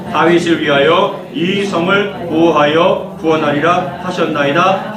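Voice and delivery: slow, measured Bible reading to the congregation; slow scripture reading. Acted. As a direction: read the verse slowly and solemnly. Reads scripture aloud.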